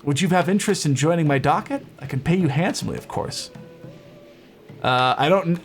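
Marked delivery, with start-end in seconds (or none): 0.0-3.5 lightly voiced dwarf, lively and salesy; quick, higher start, easing into a friendly offer; dwarf inventor. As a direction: play an eager dwarf making a pitch. Dwarf pitches a job offer.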